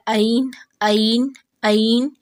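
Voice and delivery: عین said with no throat pressure; too-light mistake. Shown as a demonstration. Teacher showing the no-pressure error. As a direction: read عین lightly, from the top. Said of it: "بس اوپر سے ہی پڑھ لیا".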